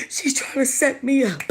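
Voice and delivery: high, country voice, half-attempted; a hesitant try at a high country voice; impression of a singer. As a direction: squeak it out like a country gossip. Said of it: "I can't do her voice".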